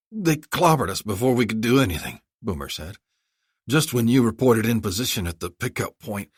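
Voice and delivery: lightly voiced shaken pilot; shaken young pilot. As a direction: tell it still in shock. Young pilot recounts ambush.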